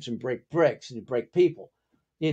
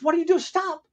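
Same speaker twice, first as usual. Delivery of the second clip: high, urgent imitated scolding; Raymond Chow; 11 semitones higher than usual. Producer scolding the fighter mid-take, high-pitched alarm. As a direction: echo the telling-off in a much higher voice. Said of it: "And then Raymond Chow goes".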